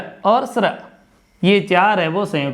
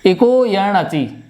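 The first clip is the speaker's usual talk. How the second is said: slow, deliberate इको यण अचि; deliberate sutra recital; sutra recitation; much slower than usual. Shown as a demonstration. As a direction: intone the sutra slowly. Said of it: "यण संधि भी अच्छे से समझ में आ जाएगी".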